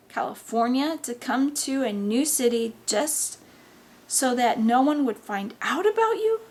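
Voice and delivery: exasperated reproach. Acted. Mother reproaching son for her sacrifices, exasperated.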